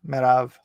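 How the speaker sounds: "Merav" ending in a v sound; "Merav" with open second vowel and final v; Hebrew pronunciation of Merab. Shown as a demonstration. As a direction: say "Merav" as meh-RAHV. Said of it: "Like that?".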